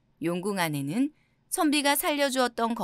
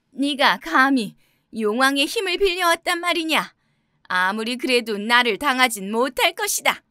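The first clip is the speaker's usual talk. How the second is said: witch's shout; 3 semitones higher, 6 dB louder than usual. A narrator's reading. Witch challenged by the Dragon King's men, shouting at scholar. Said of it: "마녀는 선비에게 소리쳤어요".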